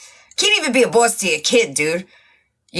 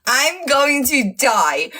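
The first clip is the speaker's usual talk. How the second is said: laughing hard; 3 semitones higher, much slower than usual. Real, not acted.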